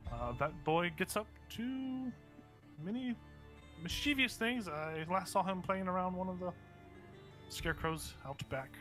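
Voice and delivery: put-on a fond old grandma gossiping; old lady voice. Grandma character speaks.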